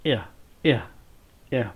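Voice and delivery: "एयर" said three times with an e to a glide; repeated vowel demo. Shown as a demonstration. Teacher repeating "एयर" for students to copy, careful drill. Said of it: "जैसे एयर".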